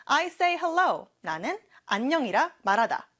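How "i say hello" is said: very slow, every word clear; slow model sentence. Shown as a demonstration. Teacher showing students the sentence, very slow. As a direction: lay each word down for the class. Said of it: "Goodbye 하면 또 잘 가라는 뜻이 되겠죠?".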